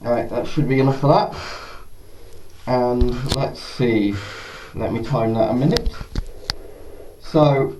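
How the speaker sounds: muffled behind a respirator; speaking from inside a gas mask; through a gas mask. Real, not acted. Wearing the mask for testing.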